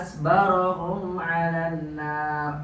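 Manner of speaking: very slow, stretched recitation; exclamation of wonder. Shown as a demonstration. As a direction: linger on "asbarohum" in awe. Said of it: "intonasi antum harus menunjukkan pada ta'ajub".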